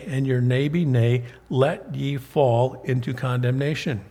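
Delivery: solemn King James reading; scripture reading. Acted. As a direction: read the verses like a preacher at the pulpit. Reads scripture aloud, preaching.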